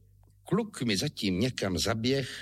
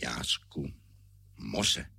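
low, whispered "Jásku, moře"; to himself; 11 semitones lower, 3 dB quieter, much slower than usual. Retold or imitated. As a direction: murmur it to yourself, pondering. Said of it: "povídám si".

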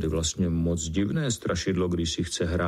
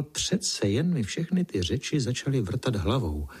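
ordinary delivery, nothing marked

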